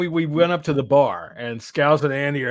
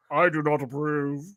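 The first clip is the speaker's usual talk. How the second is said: disapproving Scott. Retold or imitated. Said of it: "his face goes".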